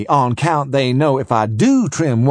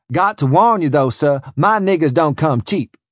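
Southern slave trader; 4 semitones higher, 3 dB louder than usual. Acted. Voiced a boastful slaver.

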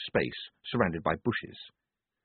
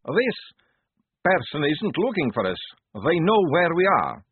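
tense insistence; 8 semitones higher, 4 dB louder than usual. A narrator's reading.

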